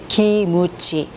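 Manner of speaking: 기무치 drawn out in three slow syllables; 기무치 said very slowly, syllable by syllable; Japanese-style kimchi. Shown as a demonstration. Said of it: "기무치가 김치가 될 수 없는 것처럼".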